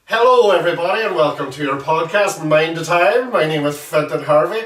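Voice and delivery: upbeat host welcome; bright podcast host opening; podcast intro. Acted. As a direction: open the show like a presenter.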